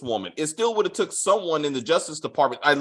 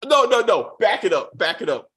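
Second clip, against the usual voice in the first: loud protest; 3 semitones higher, 4 dB louder than usual. Retold or imitated. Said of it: "And he's like".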